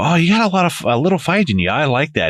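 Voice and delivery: high, teasing mock villain line; imitating the Joker. Quoting the Joker to the woman fighting him, high mock relish. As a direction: lift it high, a playful villain quote.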